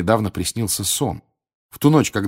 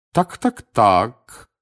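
lady keen for news; inquisitive lady; 2 semitones higher, 3 dB louder, much slower than usual. Acted. Gossip lady greets the champion.

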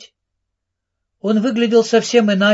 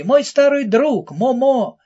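a louder, higher cry with a laugh behind it; with a touch of laughter in the cry; laughing shout; 7 semitones higher, 3 dB louder, slower than usual. A narrator's reading. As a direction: call out gladly, half laughing. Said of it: "смеясь, крикнул Джиги".

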